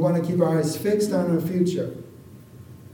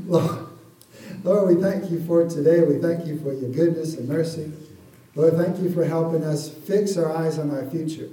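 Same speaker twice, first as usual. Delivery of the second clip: prayer. Acted. Closing prayer.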